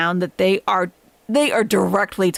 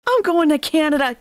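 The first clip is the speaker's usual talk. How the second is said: higher, mock-emotional outburst; mock meltdown; 8 semitones higher than usual. Mimicking Chantal on her livestream, mock-dramatic. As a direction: imitate her dramatic announcement, pitched up.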